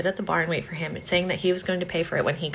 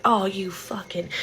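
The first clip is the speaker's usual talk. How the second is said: hissed insult; slower than usual. Retold or imitated. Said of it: "she's just like".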